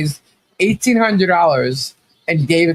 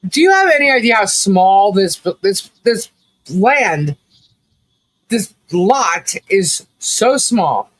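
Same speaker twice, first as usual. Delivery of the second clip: exasperated disbelief; 2 semitones higher, slower than usual. Retold or imitated. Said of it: "And I'm like".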